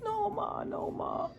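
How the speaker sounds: high-pitched imitation of a begging boy; small high voice pleading with Ma; pleading son.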